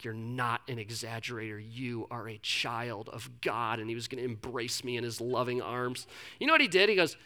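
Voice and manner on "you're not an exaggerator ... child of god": low, soft, slowing imagined comfort; heartfelt reassurance. Retold or imitated. Mentor comforts a confessing friend as God's child, soft heartfelt reassurance. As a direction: gently voice the mentor's hoped-for tenderness. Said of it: "heartfelt moment where he's like".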